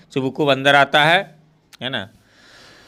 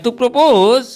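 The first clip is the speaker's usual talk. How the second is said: shocked; 8 semitones higher, 5 dB louder, much slower than usual. Acted. Natalia shocked by the news.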